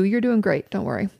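normal talking voice

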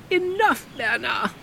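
high, loud sharp order; Comtesse ordering. Acted. Comtesse ordering Bernard off the narrator, high and loud. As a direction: command Bernard to stop. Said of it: "the Comtesse ordered again".

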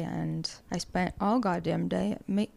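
real crack in the voice. Real, not acted. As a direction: voice cracks mid-sentence. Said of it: "my voice just cracked".

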